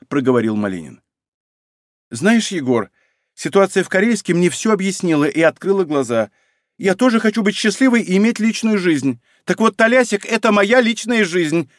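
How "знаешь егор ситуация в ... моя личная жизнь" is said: higher, ringing, defiant; ringing notes. A narrator's reading. Wife declaring her new love to her husband, ringing. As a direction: push up into a ringing defiant pitch. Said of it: "на звенящих нотках проговорила жена".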